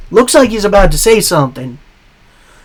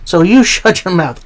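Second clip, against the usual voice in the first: mock country-accent retort, a little higher; 3 semitones higher than usual. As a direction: cut someone off in a light country accent. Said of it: "I went country accent for Logan Paul".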